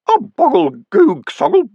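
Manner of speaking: tiny, very high gurgle; a waterlogged imp burbling; watery imp voice. A narrator's reading. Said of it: "a very little watery sound".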